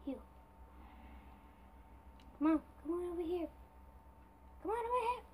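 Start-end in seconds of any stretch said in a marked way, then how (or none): 2.4-5.2 excited taunt. Real, not acted. Taunting the dragon.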